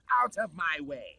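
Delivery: villain shout. Acted. Glitch float barging through crowd.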